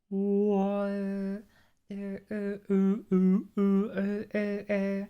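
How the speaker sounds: high vowels brightening; masculine to feminine resonance. Shown as a demonstration. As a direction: brighten the space from big to small. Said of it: "from kind of ... masculine range into a feminine range".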